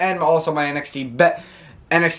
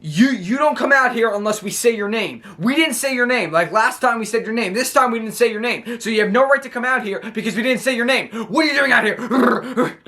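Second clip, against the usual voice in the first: mock furious rant, pitched higher, fast in places; imitating an angry rant; 5 semitones higher than usual. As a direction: play an outraged wrestler scolding intruders. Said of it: "Kevin Owens got so mad".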